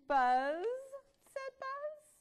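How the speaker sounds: loud puzzled little bug. Acted. Bug Buzz back home, puzzled. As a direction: squeak it out surprised.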